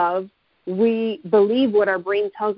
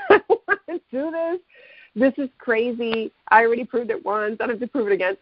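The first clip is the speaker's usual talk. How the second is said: panicky reluctance; 3 semitones higher than usual. Retold or imitated. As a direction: pitch jumps up on the first words, then settles into pleading. Panicked inner voice at pole.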